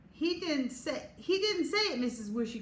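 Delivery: tattle in a high whine; whining. A narrator's reading. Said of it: "Chloe whined".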